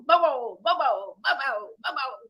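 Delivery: loud dog barks; barking dog. Acted. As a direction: bark steadily on the chase. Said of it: "all the while barking".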